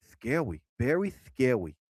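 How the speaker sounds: low hushed mock-scary "Scary", "very scary"; spooky voice. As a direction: ham up a lightly spooky tone. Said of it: "I can't believe I talk like that".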